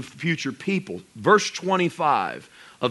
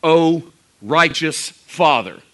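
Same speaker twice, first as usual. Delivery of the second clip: slow, louder declaration; 5 dB louder, slower than usual. Shown as a demonstration. Preacher declaring Jesus' words to God, slow and loud. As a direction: declare "O righteous Father" slowly and firmly. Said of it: "the Bible has ever declared".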